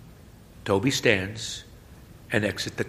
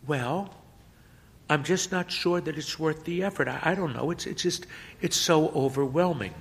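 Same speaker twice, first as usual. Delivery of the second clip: put-on hesitant boy; 7 semitones higher than usual.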